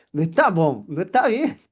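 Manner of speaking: inner protest. Retold or imitated. Seller voicing inner protest at customer, mock complaint. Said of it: "Aunque internamente".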